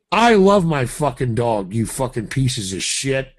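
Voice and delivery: angry tone. Real, not acted. Caller berating the store over his dog, angry. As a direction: curse them out through rising irritation. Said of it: "using that tone".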